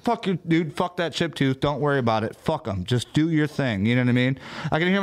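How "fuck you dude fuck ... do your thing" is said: imitating dad. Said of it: "That sounds like my dad saying".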